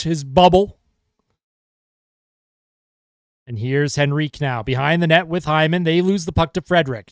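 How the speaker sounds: steady hockey play-by-play call; live broadcast commentator voice; play-by-play commentary. Acted. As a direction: call the game for the viewers.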